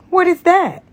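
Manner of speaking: high, loud startled question; surprised man asking; puzzled. Acted. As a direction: sound caught off guard. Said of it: "Tony asked with a puzzled look".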